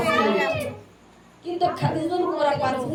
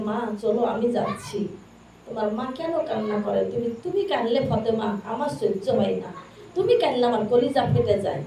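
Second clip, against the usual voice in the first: tender father; 2 semitones lower than usual. Acted. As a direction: soothe the daughter gently. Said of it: "আমার নবী বলছে".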